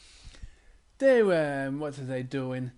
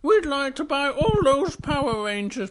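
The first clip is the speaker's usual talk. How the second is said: Little Bear voice; 9 semitones higher, 6 dB louder than usual. Acted.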